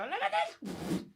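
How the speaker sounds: loud, amazed call; excited shout. Acted. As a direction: point and shout with wonder. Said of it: "You watch him go".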